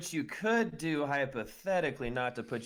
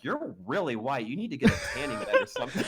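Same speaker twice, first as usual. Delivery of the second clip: mocking quote; 6 semitones higher, 4 dB louder than usual. Retold insult, mocking voice.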